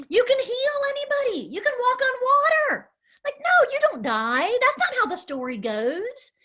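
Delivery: high, pleading protest; upset disciples. Acted. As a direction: beg him not to let it happen. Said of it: "the disciples are like".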